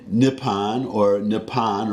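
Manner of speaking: Nippon said as nip-PAHN; native name. Shown as a demonstration. Naming what he won't say, Nippon as nip-PAHN. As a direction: say Nippon with an open ah. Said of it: "I'm not gonna say".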